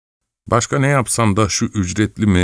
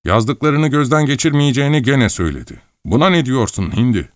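angry outburst; 7 semitones higher than usual. A narrator's reading. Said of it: "hiddet içinde haykırdım".

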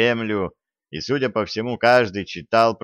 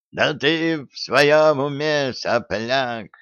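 slow, higher, biting outburst; furious old man; 5 semitones higher, much slower than usual. A narrator's reading. Grandfather furiously scolds the soldier, slow and raised. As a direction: spit it at the cheeky young soldier. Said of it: "яростно крикнул дед".

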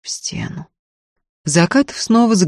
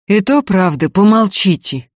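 louder, higher call for silence; commanding, raised-voice reprimand; 5 semitones higher, 7 dB louder than usual. A narrator's reading. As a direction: cut in firmly over the squabble. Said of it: "повысил голос Закатов".

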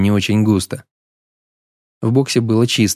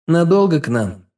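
unbothered, higher asking; phlegmatic; 7 semitones higher than usual. A narrator's reading. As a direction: ask it with lazy calm. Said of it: "флегматично поинтересовался он".

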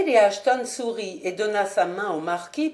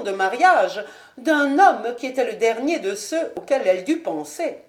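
Lady Ashton; 3 semitones higher than usual. Acted. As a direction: coolly justify herself to the marquis.

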